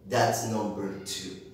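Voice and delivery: usual speaking voice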